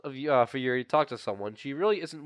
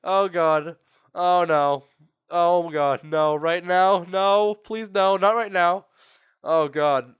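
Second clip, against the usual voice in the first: mock dread; 3 semitones higher, 5 dB louder, slower than usual. Player begging the game not right now, mock panic. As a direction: plead in hammed-up dismay, drawing out the no's.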